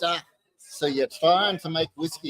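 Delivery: lightly attempted Scottish accent. Visiting Scotsman questions a distiller in his shed, in a shaky-attempt Scottish accent. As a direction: have a rough go at a Scotsman's accent. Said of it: "Is that your Scottish accent?".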